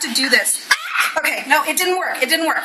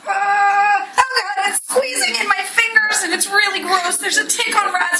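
higher, strained disgust; real panicked disgust; grossed-out panic; 6 semitones higher than usual. Real, not acted. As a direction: squeal it out as the tick squishes. Squeezing a tick, disgusted.

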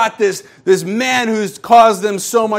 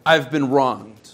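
slow, low, wounded muttering; a hint of a sulking man, low and slow; aggrieved grumble; 8 semitones lower, 3 dB quieter, slower than usual. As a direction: sulk over being wronged, slowly. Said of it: "concept of".

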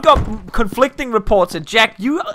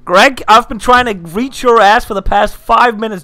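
loud, mock-stern telling-off; irate boss; 5 dB louder than usual. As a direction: chew out an employee over the phone. Boss scolding an employee by phone.

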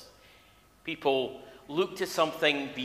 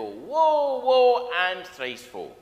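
Senna the soothsayer; 7 semitones higher, 7 dB louder, slower than usual. Retold or imitated. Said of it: "she used to come on in every episode and go".

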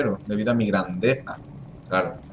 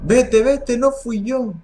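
much higher, louder frantic plea; panicked cry; 10 semitones higher, 4 dB louder, much slower than usual. Acted. Fran terrified after the kitten's death, crying out. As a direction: shriek it out, pushing danger away.

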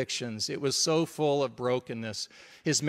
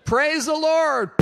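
high, loud, slow praise through a laugh; mock fervent praise; 12 semitones higher, 6 dB louder, slower than usual. Pastor imitating Ron praising before spitting, high, loud, laughing. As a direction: belt it out laughing, like a worshipper. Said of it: "into the cup".

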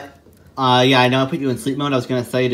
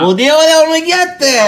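heroic voice; 7 dB louder than usual. Acted. Dramatic hero line.

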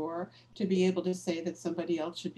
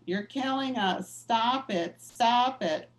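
mild mock yell building a bit louder at the end; retold scream; 3 semitones higher, 4 dB louder, slower than usual. Activist on the pew yelling at the cardinal, mild mock yell rising to the last words. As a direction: lightly replay the protester's yell, a hint of New Jersey. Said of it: "starts screaming at Cardinal".

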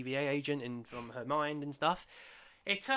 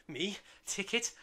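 mock-grand drunken boast, louder and higher; boastful; 5 semitones higher, 8 dB louder than usual. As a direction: puff yourself up like a tipsy god. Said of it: "he's just very boastful at this point".

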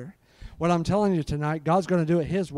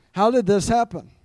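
louder, higher, emphatic disbelief; raised voice, hammed-up amazement; acted astonishment; 5 semitones higher, 5 dB louder than usual. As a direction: exclaim it as an astonished question. Repeats the amazed reaction more forcefully.

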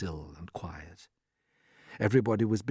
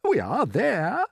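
put-on higher, lilting old grasshopper; trying to be cheerful; 9 semitones higher, 4 dB louder, slower than usual. A narrator's reading. Grasshopper cheering up his friends, high cheerful lilt. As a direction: announce it brightly, pitch swooping. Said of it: "trying to be cheerful".

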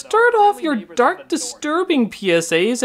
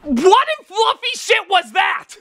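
stunned outrage; 5 semitones higher, slower than usual. Real, not acted. Outraged at the hostage PSA.

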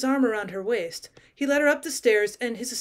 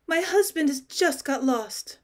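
stammering; 3 semitones higher, slower than usual. Acted. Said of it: "she stammered".

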